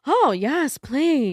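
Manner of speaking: high, loud, swooning Hollywood starlet; Marilyn Monroe voice. Retold or imitated. Friend imitating her Marilyn-style reply. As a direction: coo it like Marilyn. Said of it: "It was, like, giving Marilyn".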